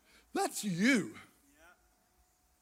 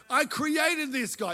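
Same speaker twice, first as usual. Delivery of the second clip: higher, slowed proud voice; voicing God; 5 semitones higher than usual. Preacher voices God bragging on a man, lightly. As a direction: speak as a proud creator. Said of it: "This is God speaking".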